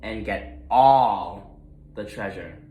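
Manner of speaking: lightly voiced greedy pig, boastful. Gruntley boasts at the starting line, gloating. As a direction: gloat about being first.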